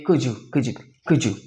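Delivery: could you as "couldju"; couldju, D and Y fused to J; couldju blend. Shown as a demonstration. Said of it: "इसे American movies में आप सुनेंगे".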